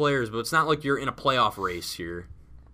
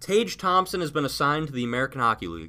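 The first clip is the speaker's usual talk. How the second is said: news announcement; 2 semitones higher, 4 dB louder, faster than usual. Pretend. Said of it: "breaking news".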